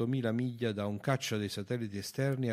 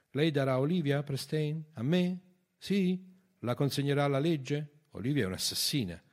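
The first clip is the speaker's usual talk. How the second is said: high, loud volley of questions; challenging questions; 7 semitones higher, 8 dB louder than usual. A narrator's reading. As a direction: press harder with each question. Sfida incalzante con domande a raffica. (domande incalzanti, alte e forti)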